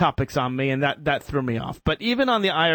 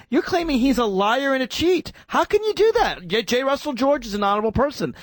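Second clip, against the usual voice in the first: rising indignation; 4 semitones higher than usual. Pretend. Pretend argument with critics.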